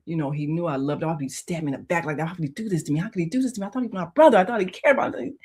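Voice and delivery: fast, agitated inner rant; stewing over a betrayal, building to indignation; re-enacted hurt anger. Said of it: "I was so angry".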